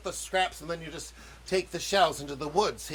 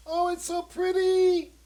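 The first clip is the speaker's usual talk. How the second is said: delighted; 13 semitones higher, 4 dB louder than usual. Real, not acted. Admiring the browned fried dough.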